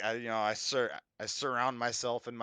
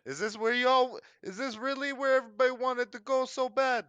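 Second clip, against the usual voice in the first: high, louder goblin grumble; high grumbling goblin; 9 semitones higher, 4 dB louder than usual. Acted.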